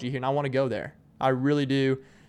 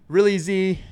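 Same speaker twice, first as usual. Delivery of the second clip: skeptical; 6 semitones higher, 6 dB louder than usual. Retold or imitated. Doubting the kid's fake name.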